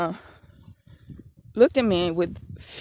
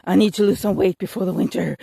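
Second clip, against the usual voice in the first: determined self-talk; 5 dB louder than usual. Retold or imitated. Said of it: "And I was just like".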